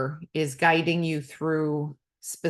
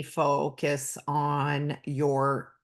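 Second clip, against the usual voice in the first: slightly lowered, measured guided-meditation voice; lightly voiced yoga instructor, slow start; guiding instructor; 2 semitones lower, slower than usual. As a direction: ease through it like a body-scan cue. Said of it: "instructors will focus on the foot and say".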